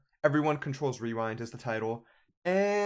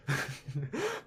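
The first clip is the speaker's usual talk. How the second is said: laugh; 7 dB quieter than usual. Real, not acted. Laughs at own bit.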